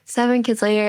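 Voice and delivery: laughing as she repeats it; amused repeat with a laugh. Real, not acted. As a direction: laugh through the words.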